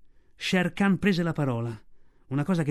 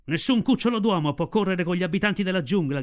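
shouted; 3 semitones higher, 3 dB louder than usual. Acted. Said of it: "gridò Shere Khan".

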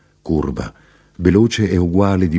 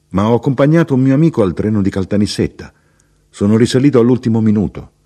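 a touch higher and brisk, pleased with himself; lightly voiced chatty traveller; 5 semitones higher, 4 dB louder, faster than usual. The traveller explains his train change to the narrator, lightly voiced and brisk. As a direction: rattle it off like a talkative fellow passenger.

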